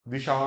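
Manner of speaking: "दिशा" with brief di, open shaa; short first vowel. Shown as a demonstration. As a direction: say a quick di in "दिशा". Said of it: "ऐसा नहीं".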